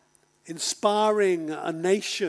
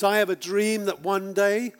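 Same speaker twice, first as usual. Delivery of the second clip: moved while reciting the dream; choked up quoting the famous speech; getting emotional; 3 semitones higher, 5 dB louder than usual. Real, not acted. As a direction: voice filling with real feeling, a little louder. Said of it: "sorry, get emotional".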